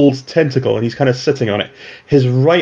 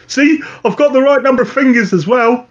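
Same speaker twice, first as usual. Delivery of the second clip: higher mutant voice, cheery; 12 semitones higher than usual. Acted. Mutant actor introducing himself to the cell, breezy and higher. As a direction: pitch up and breezy. Mutant shows his hand.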